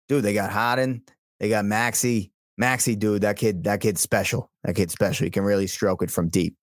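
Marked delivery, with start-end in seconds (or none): 0.1-5.2 light Boston accent, casual dude; lightly put-on Boston sports fan. Shown as a demonstration. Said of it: "like you can turn on and off that Boston accent".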